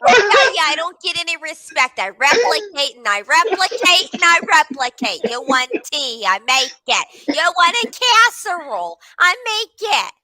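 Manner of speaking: the ship's computer whining that it gets no respect. Acted. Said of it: "I'm gonna take these sound bites".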